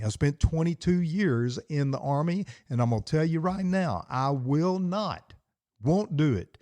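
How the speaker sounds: rising, fired-up preacher push; a touch of fired-up pastor; getting fired up. Real, not acted. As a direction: let the conviction climb and lift. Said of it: "I'm getting a little bit fired up".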